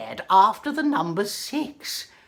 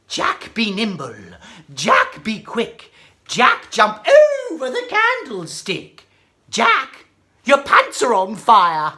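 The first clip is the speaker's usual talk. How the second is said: rhyme recitation; 4 dB louder than usual. Acted.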